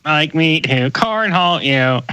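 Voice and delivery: slow, flat robot monotone; drawn-out machine voice. Pretend. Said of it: "Sound like humans impersonating robots".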